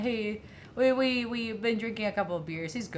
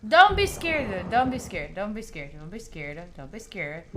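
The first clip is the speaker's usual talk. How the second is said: reassuring; 4 semitones lower, 3 dB louder than usual. Acted. Soothing a creature, fading.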